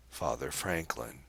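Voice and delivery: lightly mocking stress on "Father"; faint mocking emphasis. A narrator's reading. Girl questions the priest's title, faintly mocking on "Father". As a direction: lean on "Father" with the faintest mockery. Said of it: "faintest tinge of mocking emphasis on the first word".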